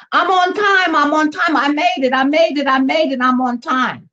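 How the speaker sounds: high, bright sing-song of relief; relieved triumph. Acted. Proud latecomer announcing to everyone, high and relieved. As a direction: crow it like you just made it. Acted quote, arriving late, relieved.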